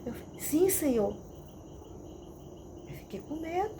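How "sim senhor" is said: higher, submissive reply; mildly awed, obedient; reverent fear. Retold or imitated. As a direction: answer with a touch of holy fear. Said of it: "era medo santo".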